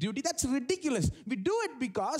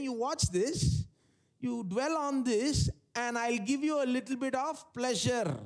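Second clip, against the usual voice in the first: sin as tempter; 4 semitones higher than usual. Acted. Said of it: "sin is speaking and saying".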